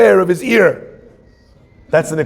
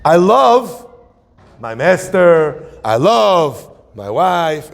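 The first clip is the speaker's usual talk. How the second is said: slow, earnest declaration of love; devoted servant; much slower than usual. Retold or imitated. Servant telling his master why he stays, slow and earnest. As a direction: plead to stay, drawing each word out. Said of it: "what did the guy say that made him stay".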